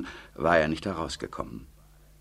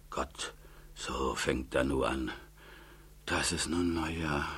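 muttering to herself; 3 semitones lower, 7 dB quieter than usual. A narrator's reading. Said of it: "während die Alte vor sich hin brummelte".

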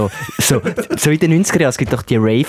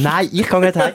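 higher, stubborn party voice; mock Matthew; 6 semitones higher than usual. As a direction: play the guy who won't go home. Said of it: "würde der Matthew sagen". (trotzig gespielt, höher)

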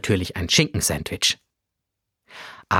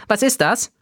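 put-on curious boy; 9 semitones higher than usual. A narrator's reading. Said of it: "fragte Ben neugierig".

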